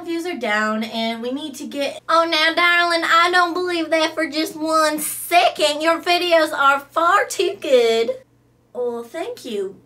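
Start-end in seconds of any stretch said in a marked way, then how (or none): 2.1-8.2 loud, high Southern belle gushing over darling; a fussy Southern belle who flatters everyone; big, sweet Southern charm; Rhonda Lou. Acted. One person plays Rhonda Lou.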